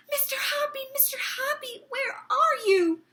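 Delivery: high, loud calling from below; excited shouting. Acted. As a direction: call up to him, shrill with excitement. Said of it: "she was shouting".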